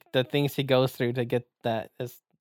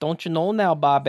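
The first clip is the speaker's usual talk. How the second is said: put-on Minnesota accent; 3 semitones higher than usual.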